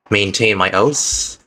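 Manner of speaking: normal talking voice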